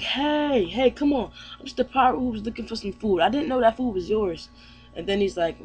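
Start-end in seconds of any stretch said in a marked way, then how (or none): 0.0-4.5 mildly raised, quick protesting Luffy. Retold or imitated. Luffy pleading with the crying princess, mildly high and quick. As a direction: brush it off like a goofy pirate. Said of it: "Luffy's like".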